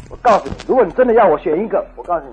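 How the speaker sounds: retold flare of temper, loud then settling; somewhat fired up. Wife answering her husband's ultimatum, somewhat fired up. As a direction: start forcefully, end in a firm statement. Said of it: "也有点发火了".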